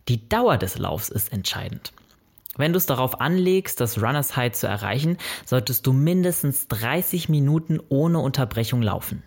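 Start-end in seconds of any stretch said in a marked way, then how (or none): 5.5-7.8 "mindestens" given extra emphasis; stress on mindestens. Real, not acted. Podcaster advising a runner on minimum duration, stress on "mindestens". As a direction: lean on "mindestens" as the key word. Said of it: "Betonung auf mindestens".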